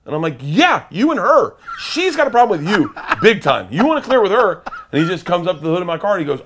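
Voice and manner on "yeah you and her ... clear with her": nervous laughing deflection. Retold or imitated. Pointing the driver at his wife.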